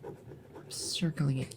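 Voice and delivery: slow, hushed and menacing; creepy whisper. Acted. Monster circling the date for its victim, slow creepy whisper. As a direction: drag it out in a sinister whisper. Creepy repeated line fading.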